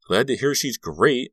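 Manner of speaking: slow, loud, high-pitched mock gladness; sarcastic. A narrator's reading. Margot answering Carrie about Mandy, sarcastic. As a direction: drag it out in false delight. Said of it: "Margot said sarcastically".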